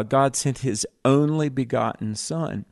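usual speaking voice

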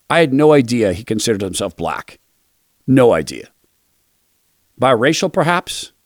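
low, dry sarcastic aside; deadpan mock astonishment; sarcastic disbelief. Real, not acted. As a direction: feign surprise with a sneer.

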